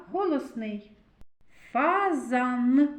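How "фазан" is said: "Фазан" with a long final "н"; sounding out N. Shown as a demonstration. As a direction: hum on the last n of "Фазан". («Фазан» з протяжним «н» у кінці)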